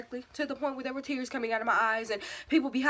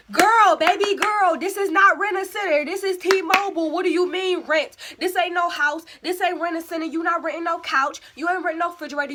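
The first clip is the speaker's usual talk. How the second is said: higher and louder, exasperated telling-off; scolding herself; 6 semitones higher, 6 dB louder than usual. Acted. Scolding her younger self about T-Mobile, loud and high. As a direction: scold baby girl like a fed-up aunt.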